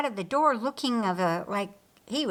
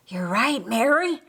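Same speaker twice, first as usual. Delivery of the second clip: muffled; 3 semitones higher, 4 dB louder than usual. Acted. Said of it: "a muffled response from inside".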